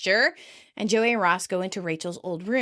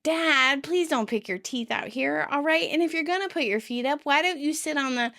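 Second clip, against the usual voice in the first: higher, nagging mock scold; lightly acted telling-off, pitched up; 5 semitones higher than usual. Monica scolds her dad about his manners, mock scolding. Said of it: "She scolds her dad".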